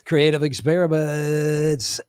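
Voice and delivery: slow, drawn-out announcer delivery of "Creative experiments"; host voice teasing the chat; game show voice. Shown as a demonstration. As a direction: stretch it like a game show host revealing the category. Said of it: "I'm gonna talk to you in my game show voice".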